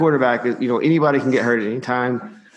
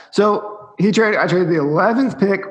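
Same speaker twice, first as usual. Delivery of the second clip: higher, strained voice after coughing; strained throat; 7 semitones higher than usual. Real, not acted. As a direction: push words out through a tickly throat. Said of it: "Oh God, I can't talk".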